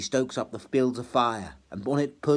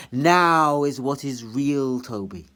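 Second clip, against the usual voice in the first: louder, slow proclaiming; ringing bell voice; 2 semitones higher, 7 dB louder, slower than usual. Acted. The bells proclaim slowly and louder to Toby. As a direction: toll it out.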